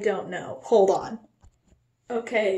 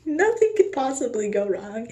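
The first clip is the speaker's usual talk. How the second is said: nervous laughing. Acted. Nervous repeat after a laugh.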